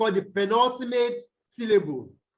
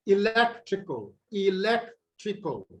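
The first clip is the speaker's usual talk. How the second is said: electrical, stress on LEC, second take slower. Shown as a demonstration. Teacher repeats the word for students, stress on LEC. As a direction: model electrical, hitting LEC. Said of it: "stress here will be on the syllable before".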